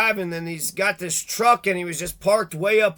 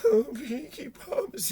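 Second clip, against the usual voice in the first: 1 mocking laugh; 6 semitones higher, 5 dB quieter, slower than usual.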